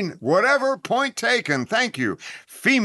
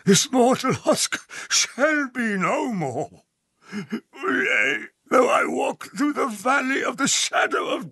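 slow, dragged-out dying words; melodramatic death scene; much slower than usual. Acted. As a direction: ham up a slow stage death. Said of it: "what in God's name is that?".

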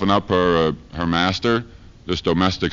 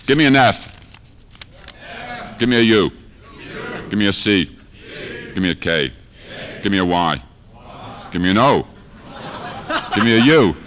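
cheerleader call. Acted. Cheerleader chant to audience.

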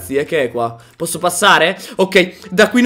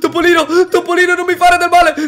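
being chased; 6 semitones higher, faster than usual. Real, not acted. Begging the mouse.

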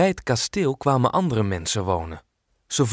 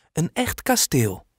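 higher, amazed little question; surprised question; 5 semitones higher than usual. Acted. Girl amazed to hear about the castle, surprised question. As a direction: ask it wide-eyed with surprise. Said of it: "vraagt Kolletje verbaasd".

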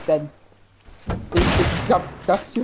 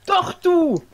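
high loud accusation; accusing shout; 11 semitones higher, 6 dB louder than usual. Real, not acted. Accusing in game.

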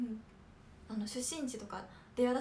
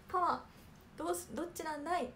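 light, higher-pitched catchphrase imitation; Nakayama Kinnikun/public; 4 semitones higher than usual. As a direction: playfully attempt a comedian's catchphrase. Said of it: "中山きんに君好きです。". (きんに君のものまね)

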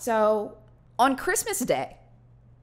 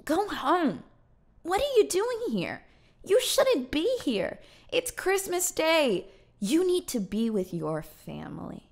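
put-on high, scolding older-woman voice; imitated elderly woman; 7 semitones higher than usual. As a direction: send them home, pitched well up. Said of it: "This elderly eighty-year-old woman".

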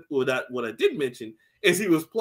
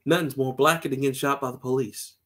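low fatherly voice; 4 semitones lower than usual. Retold or imitated. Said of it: "He's like".

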